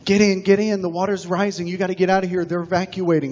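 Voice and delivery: mock urgent yell of rescuers. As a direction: call out urgently to him. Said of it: "they're yelling".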